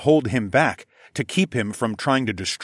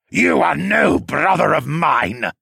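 loud, higher, slow cry of pain and loathing; anguished wail; 7 semitones higher, 6 dB louder, slower than usual. A narrator's reading. Siskern refusing Senna as brother, in an anguished wail. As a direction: wail it as if it tears you apart. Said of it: "Siskern wailed".

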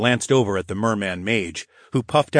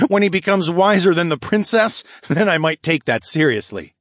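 amused, higher-pitched mockery; laughing scorn; 8 semitones higher, 4 dB louder than usual. A narrator's reading. Captor mocks the captive's leader, laughingly scornful. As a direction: make fun of the claim, voice lifted. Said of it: "I laughed".

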